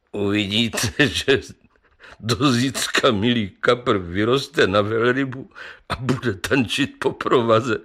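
vypráví a přitom se směje; posměšně se zasmát a dodat vtip; se smíchem. Acted. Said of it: "smál se lékárník". (lékárník se vysmívá kapru, se smíchem)

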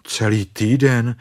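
a touch of glum dismay; mildly gloomy. Acted. Bear faces a week stuck, mildly glum. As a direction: repeat it with understated gloom. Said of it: "řekl Pů zachmuřeně".

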